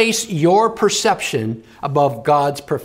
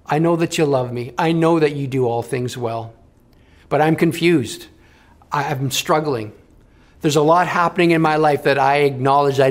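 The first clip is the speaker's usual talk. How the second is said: earnest prayer; 3 semitones lower than usual. Acted. Leads a prayer.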